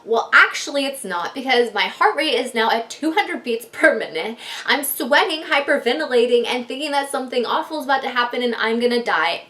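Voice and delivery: worked-up, emphatic comeback; acted-out exasperated complaint; indignant retort. Retold indignant retort to husband.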